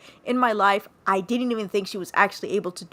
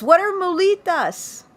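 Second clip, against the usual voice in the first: put-on Hispanic accent; 9 semitones higher, 4 dB louder than usual. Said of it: "I busted out my bad Hispanic accent".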